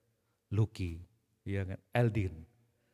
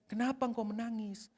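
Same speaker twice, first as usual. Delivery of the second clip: softer, tender question; gentle Jesus; 7 semitones higher, 5 dB quieter than usual. Acted. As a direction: ask quietly and kindly. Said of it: "Tuhan Yesus mendatangi dengan lembut". (Yesus bertanya dengan lembut)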